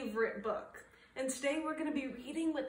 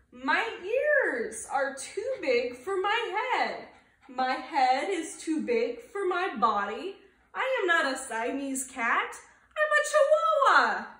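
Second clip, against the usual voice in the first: put-on a light Spanish accent, laughing and louder; 4 semitones higher, 6 dB louder than usual. A narrator's reading. Kitten using his best Spanish accent, lightly done, laughing. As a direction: play a giggly Spanish accent, ending in a high shout. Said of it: "using his very best Spanish accent".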